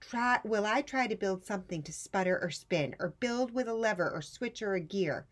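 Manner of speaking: put-on high, loud, upset child vow; Rosie's dismayed vow. Rosie vowing to herself never to build again, upset. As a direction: swear it off like a mortified kid. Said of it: "who thought".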